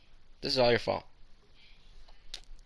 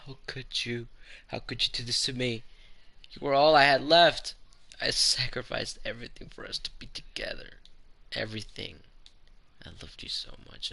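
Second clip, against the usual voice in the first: lightly voiced betrayed girl, bitter and hurt; Monika heartbroken; 3 dB louder than usual. Monika tells MC he hurt her, lightly voiced bitter heartbreak. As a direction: speak the betrayal, wounded and cold.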